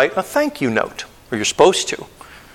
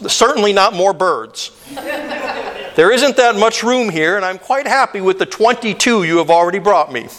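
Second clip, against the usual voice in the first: laughing. Acted. Writer strained, laughing at birds.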